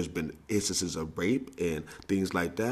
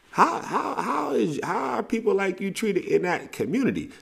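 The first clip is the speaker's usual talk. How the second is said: high insistent questioning; 12 semitones higher than usual. Real, not acted. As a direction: pitch jumps up, pressing hard.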